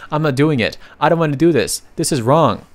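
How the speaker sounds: whiny stubborn refusal, pitch pushed up; childish tantrum. Acted. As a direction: stamp your feet like a sulking kid. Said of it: "throw a tantrum like they are the kids".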